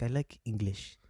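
halting mock French accent, word by word; badly faked French accent, deliberate and measured. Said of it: "I can't do a French accent".

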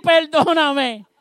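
"perdóname" drawn out very slowly, high and loud; slow pleading. Acted. Simi to the king he cursed: slow loud plea. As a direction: stretch the plea out, begging. Simi begs David's pardon.

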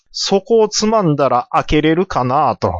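ordinary talk, nothing marked

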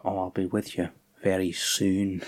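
low, hushed mock promise; MacReady. MacReady answering her from his room, quietly ominous.

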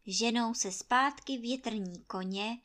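usual speaking voice

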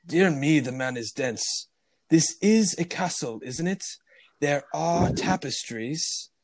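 haughty attempt at a Scottish lord; badly faked Scottish accent. Fake lord scorning the dense butler, bad Scottish accent. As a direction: play an exasperated fake Scot, drawing words out. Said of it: "He adopts a Scottish accent".

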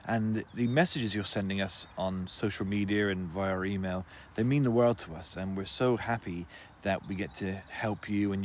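a light host-style announcement to listeners; outro read. Acted. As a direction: read the thanks and the sponsor plug. Podcast outro and sponsor read.

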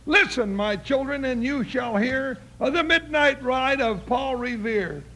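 declaiming a poem with a schoolboy flourish; poem recitation. Pretend. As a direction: recite it proudly, like at a school show. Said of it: "I was just getting started".

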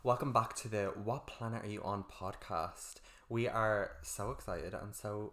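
slow, flat podcast intro; reading on autopilot. Real, not acted. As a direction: read it like a bored script. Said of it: "We sound so monotone".

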